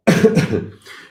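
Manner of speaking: single sharp dry cough. Real, not acted. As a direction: cough hard once, dryly. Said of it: "je tousse beaucoup aujourd'hui".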